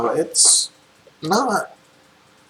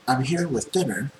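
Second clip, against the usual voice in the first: light airy voice; 2 semitones higher, 4 dB quieter than usual. Acted. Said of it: "she says in a really light, airy voice".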